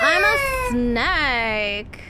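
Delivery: slow, wobbling snake voice with a sob-like quiver; mock crying snake, drawn out; quavering snake voice. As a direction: stretch it out like a whimpering snake. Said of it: "You know? Do you ever do that?".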